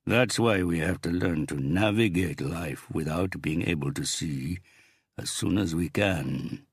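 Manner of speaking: slow, gloating gang boss; menacing crime boss. Acted. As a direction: savor every word, threatening. Big boss voiced in story.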